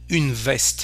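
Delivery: "veste" with an open "eh"; open E sound. Shown as a demonstration. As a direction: say "veste" as "vest". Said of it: "we have the sound A".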